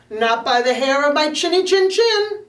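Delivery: stubborn little pig answering the wolf; defiant little pig. Acted.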